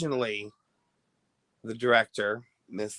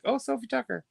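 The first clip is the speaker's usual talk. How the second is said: excited recall; 13 semitones higher, faster than usual. Retold or imitated. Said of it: "and I'm like".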